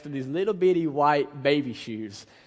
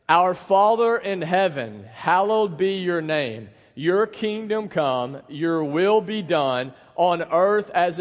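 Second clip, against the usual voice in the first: slow, measured, projected group reading; congregational recitation. Real, not acted. Pastor leading the congregation in the Lord's Prayer, slow projected recitation. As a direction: lead a crowd reading aloud in unison.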